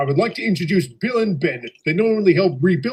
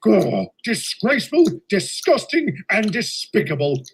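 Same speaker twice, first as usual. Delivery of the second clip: indignant outburst; 4 semitones higher than usual. Acted.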